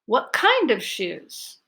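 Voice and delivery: "kind" lifted high with a long clear vowel; a parent asking, the stress on "kind"; focus on kind. Shown as a demonstration. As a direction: lean on "kind". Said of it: "I will be the parent".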